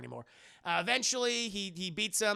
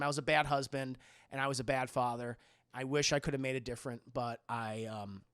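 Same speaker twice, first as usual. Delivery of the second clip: acted regret; 6 semitones lower than usual. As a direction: trail off as a remorseful father, understated. Spawn's regretful farewell.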